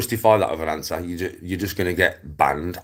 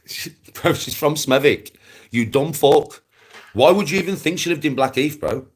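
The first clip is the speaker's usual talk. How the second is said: higher, louder, disbelieving insult; exasperated; 7 semitones higher, 4 dB louder than usual. Real, not acted. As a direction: scoff hard, fed up. Correcting rival, exasperated.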